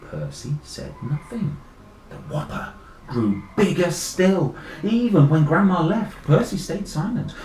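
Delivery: measured telling that swells with each repeat; story narration. A narrator's reading. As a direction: build the tale step by step. Reads story aloud to children.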